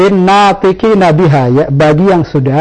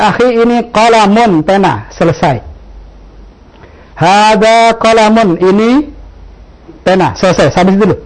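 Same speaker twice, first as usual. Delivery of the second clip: easy, unhurried classroom explanation; a teacher keeping it short and simple for a beginner; simple teacher demo; 3 semitones higher than usual. Shown as a demonstration. Teacher showing a beginner the easy way, relaxed and simple. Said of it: "Lebih mudah mana?".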